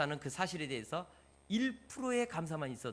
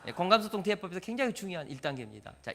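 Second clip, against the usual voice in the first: usual speaking voice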